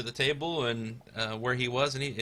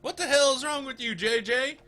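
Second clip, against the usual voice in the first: high-pitched, exasperated yell; exasperated guard; 4 dB louder than usual. Acted. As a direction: bark it out, pitched well up. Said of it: "he's like".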